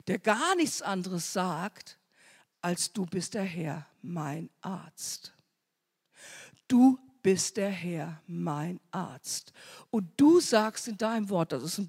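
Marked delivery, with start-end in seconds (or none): 2.6-9.5 whispered confession. Acted. Same words, now whispered to self.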